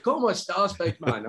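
mock-Spanish greeting, high at first; Spanish with Scottish banter. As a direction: playfully imitate a mate breaking into Spanish. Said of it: "the Spanish that comes out".

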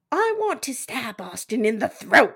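light British ghost voice, slow at the end; a hint of a nineteenth century ghost. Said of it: "do Cam as British nineteenth century ghost".

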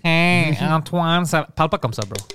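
put-on nasal impression. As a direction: imitate someone talking through the nose. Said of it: "je connais la voix nasale".

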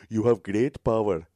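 slow imitated Indian accent; mock-solemn Indian accent, drawn out. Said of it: "some Indian guy".

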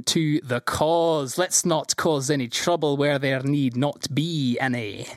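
slow smooth villain; oily, slow rat-lord drawl. Acted. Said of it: "he says".

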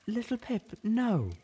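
firm refusal. Acted.

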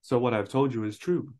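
put-on lightly American-accented film line. Reading Obi-Wan's line to co-hosts, American accent. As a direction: quote read in an American accent. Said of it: "Why do you sound American?".

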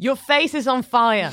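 Dutch bluntness. Acted. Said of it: "Dutch people are like".

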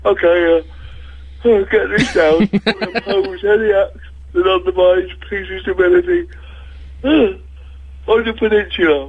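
talking through a yawn. Pretend. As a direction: stretch words out mid-yawn. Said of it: "delivered through a yawn".

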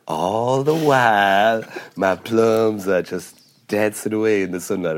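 slow drawn-out comic drawl; Will Ferrell drawl. Retold or imitated. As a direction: stretch it out lazily like Will Ferrell. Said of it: "And he goes".

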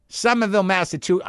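attempted Boston accent, starting high; tentative Boston-accent demo. Shown as a demonstration. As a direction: try out a local Boston accent on "Somerville, Massachusetts". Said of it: "I don't even know if I'm doing it right".

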